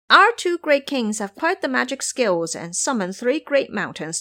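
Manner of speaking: lightly voiced bragging imp; boastful imp. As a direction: brag about the great kings.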